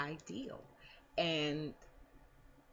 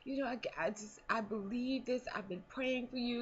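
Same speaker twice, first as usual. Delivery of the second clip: imitating teary grandma; 9 semitones higher than usual. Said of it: "she burst into tears".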